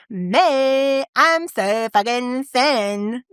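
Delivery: slow, drawn-out parody of bragging; hammed-up self-congratulation, stretched words; mock boasting. Former self boasting about being thin, mock smugness.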